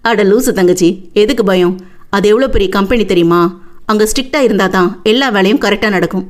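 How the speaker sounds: lightly voiced big brother; reassuring older brother. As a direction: reason away your little sister's fear.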